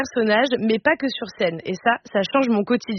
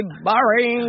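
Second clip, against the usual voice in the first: drawn-out mockery. Mocking verdict on son, in English.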